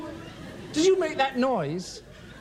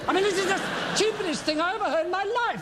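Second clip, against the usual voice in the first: exasperated; 6 semitones higher, much faster than usual. Acted. Exasperated outburst.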